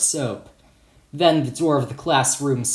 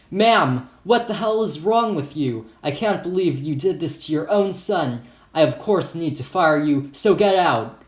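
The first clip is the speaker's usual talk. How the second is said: moderately angry, raised-pitch reprimand; scolding; 3 semitones higher than usual. Acted. Principal to teacher he is firing, scolding. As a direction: scold hard from the first word. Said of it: "stormed into the room and scolded".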